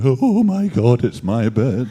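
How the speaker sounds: mock panic. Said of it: "and you're coming up".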